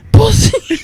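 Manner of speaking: high-pitched mock child's yell; retold scream. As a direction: squeal it out like a defiant toddler. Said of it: "she screams".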